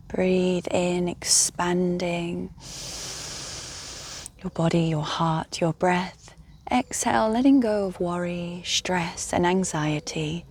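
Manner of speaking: calm guided-meditation voice with long pauses. Real, not acted. Guide inviting listeners to rest and breathe, meditative.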